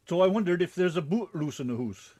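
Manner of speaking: put-on playful, lightly done Scottish accent with "boot" and "hoose"; a hammed-up Scottish brogue; mock Scottish accent. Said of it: "Oh, wait, that's Scottish".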